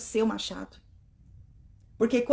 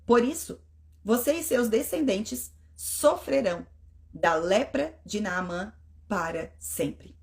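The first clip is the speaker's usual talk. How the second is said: steady reading-aloud voice; Bible reading. Acted. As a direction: read the scripture clearly. Reads Bible passage aloud.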